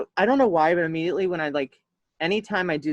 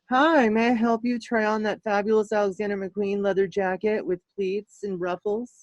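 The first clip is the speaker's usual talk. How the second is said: shop assistant; 4 semitones higher than usual. Retold or imitated. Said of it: "This is how people".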